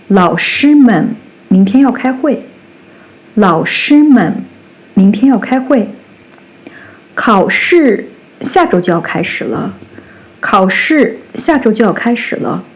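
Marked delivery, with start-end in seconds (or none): 3.3-9.7 unvoiced whisper of the sentence; whispered example. Shown as a demonstration. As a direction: breathe it out without voice. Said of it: "demo sentence read two ways".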